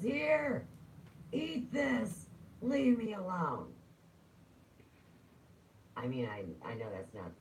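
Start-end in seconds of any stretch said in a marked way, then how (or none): 0.0-3.7 very high, loud hammed-up shout; mock angry yell. Driver throwing food at an old woman, high mock yell. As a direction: yell it high, drawing out the last words. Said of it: "and he goes".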